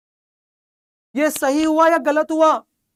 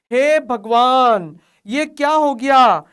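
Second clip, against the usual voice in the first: slow, louder cry of mock dismay; mock despair; 5 dB louder, much slower than usual. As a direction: play the horrified teacher, tongue in cheek.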